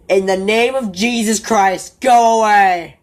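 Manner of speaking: high, loud command rising to a shout. Retold or imitated. Reese outside with rifle ordering the creature away, loud high shout. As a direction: banish it in Jesus' name at full voice.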